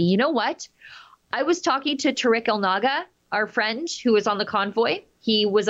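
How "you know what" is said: breathy whispered aside. Real, not acted. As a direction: drop to a whisper. Same phrase, whispered take.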